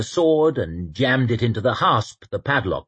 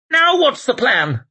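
anxious man's voice; 5 dB louder than usual. Acted. Temple asks in panic.

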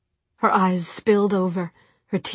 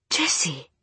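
soft. Acted. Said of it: "Jem's voice was soft".

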